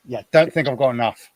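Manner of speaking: dry, deadpan irony; sarcastic. Acted. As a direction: say it sarcastically, meaning the opposite. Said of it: "He says sarcastically".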